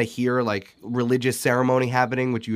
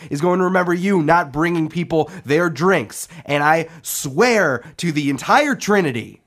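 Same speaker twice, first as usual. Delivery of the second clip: building, louder threatening speech; rousing boss speech; 4 semitones higher, 3 dB louder than usual. Acted. Half-orc boss threatening her kitchen staff, rising loud. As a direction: whip the troops into line.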